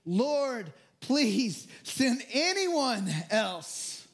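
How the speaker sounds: slow drawn-out plea to God; pleading, slow and drawn out. Acted. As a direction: beg to be let off, stretching it out. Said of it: "Moses again pleaded".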